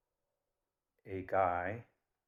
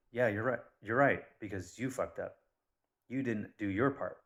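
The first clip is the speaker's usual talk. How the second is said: louder, accusing comeback; retold angry retort; 2 semitones higher, 5 dB louder than usual. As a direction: throw the blame back, acting out the argument. Retold quarrel over the bill.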